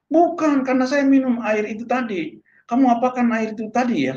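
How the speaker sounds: high-pitched mimicked protest; excited insistence. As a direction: imitate an excited friend contradicting and questioning. Acted argument by healed friend. (menirukan bantahan yang heboh)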